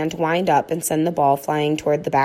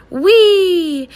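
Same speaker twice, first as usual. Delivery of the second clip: joyful dog; 12 semitones higher, 8 dB louder than usual. A narrator's reading. Dog galloping.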